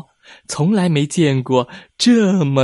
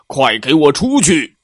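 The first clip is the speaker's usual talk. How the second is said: scolding; 3 semitones higher, 5 dB louder than usual. Acted. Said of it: "就听见呵斥声传来".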